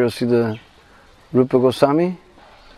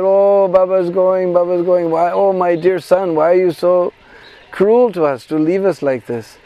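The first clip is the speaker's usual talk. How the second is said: slow, lightly lamenting villagers begging him to stay; a touch of tearful pleading, drawn out; mock crying plea; 4 semitones higher than usual. Villagers crying as Sanatana Goswami leaves, mildly tearful plea. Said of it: "all the Brajbasis would cry that".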